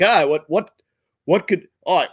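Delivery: mock Aussie husband wondering where she went; Australian accent. Date waiting at dinner, in a put-on Australian accent. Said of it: "he's Australian".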